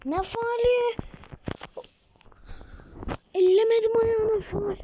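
high, loud, indignant; angry protest. Real, not acted. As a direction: yell at the referee's foul call. Protests a foul call in the game.

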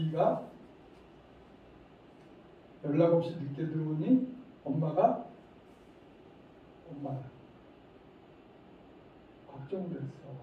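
mother calmly saying she was worried, not angry; calm, sincere worry. Shown as a demonstration. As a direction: gently tell the child you were worried. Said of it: "정확하게 이렇게".

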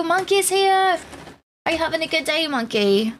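lilting put-on English voice; British accent. Streamer welcomes Monkey to the chat, put-on British accent. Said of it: "How is my English accent today?".

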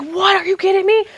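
high, squeaky incredulous question; retold disbelief. Acts out her shocked reaction.

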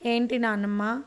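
starts even, then yells the last question; stern grandmother raising her voice at the end; building to a shout. Acted. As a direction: press harder until the last word is a shout. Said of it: "పెద్దగా అరిచింది దుర్గమ్మ".

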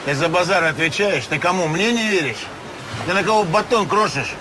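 menacing thug. Acted. Con man threatens doubting client.

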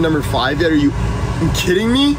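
high, incredulous outburst; disbelieving squeal. Real, not acted. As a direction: shriek it in outraged disbelief. Frustrated over stream ranking.

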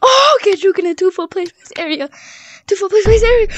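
loud, high gloating yells; gloating taunt. Real, not acted. Taunting the other player, loud high gloating. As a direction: rub it in after the tag. Gloating after tagging in game.

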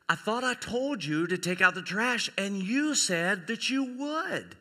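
lightly chiding, rising on the reminder; mild fatherly scolding. Acted. Father to daughter about the forgotten trash, mildly scolding. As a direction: play a mildly reproachful father.

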